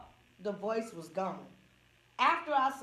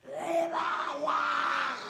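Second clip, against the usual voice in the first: screaming lady; 4 semitones higher, much slower than usual. Retold or imitated. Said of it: "this lady kept screaming".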